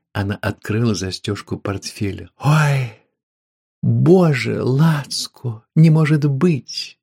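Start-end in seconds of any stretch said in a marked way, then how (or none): 2.4-7.0 higher, louder joyful cries; woman thrilled by the meat, squealing; delighted squeal. Acted. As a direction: gasp with delight at the gift.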